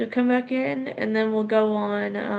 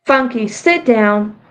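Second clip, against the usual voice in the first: calling to the dog; 8 dB louder, slower than usual. Real, not acted. Telling the dog to sit.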